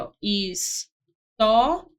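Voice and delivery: slow, stretched história with a rising end; teacher stretching história, rising; drawn-out história. Shown as a demonstration. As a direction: say história slowly, stretching each syllable.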